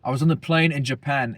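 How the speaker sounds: lightly put-on British accent; jokey, half-hearted British voice; mock British accent. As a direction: retell it with a hint of British. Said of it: "I look British, bro. Hey, bruv".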